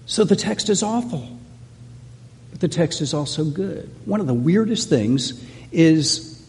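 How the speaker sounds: ordinary talk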